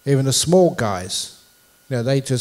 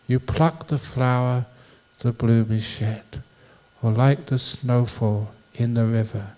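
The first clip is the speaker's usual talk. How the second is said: slow, measured verse reading with pauses; poem recitation; slower than usual. Acted. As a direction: recite line by line, fading away at the end.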